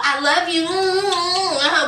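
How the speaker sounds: mock smitten sweet talk with hums; happy lovey-dovey. Happy man cooing to his partner, mock lovey-dovey. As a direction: imitate a man suddenly all loving. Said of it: "he was all happy then".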